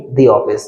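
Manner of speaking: दी office with दी as "thee"; long ee in दी; "thee" before vowel. Shown as a demonstration. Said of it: "अब तो इसको दी office पढ़ेंगे".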